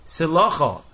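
Silacha stressed on "la", not the ending; accent toward the beginning. Shown as a demonstration. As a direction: say Silacha as si-LA-cha, last syllable unstressed. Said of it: "the accent is on the beginning of the word".

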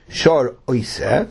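slow "shor oi se" with "oi" left unstressed; no emphasis on oi. Shown as a demonstration. Teacher correcting where the emphasis falls, oi unstressed. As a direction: say "shor oi se" slowly, no punch on "oi". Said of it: "don't put the emphasis on the word oi".

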